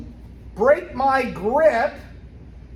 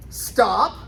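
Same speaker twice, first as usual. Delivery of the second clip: sharp martial arts commands; 4 dB louder than usual. Shown as a demonstration. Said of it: "She's gonna say either".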